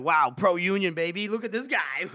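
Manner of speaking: lightly hammed-up drunken cheer; boisterous drunk. Drunk officer hailing a hero, mock boisterous. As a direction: whoop it up like a tipsy reveler. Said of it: "he's just drunk and just like".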